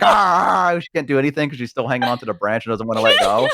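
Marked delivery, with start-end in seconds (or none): 0.0-0.8 long, higher playful dog growl; imitated dog growl. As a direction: growl like a dog that won't let go. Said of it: "And she's like".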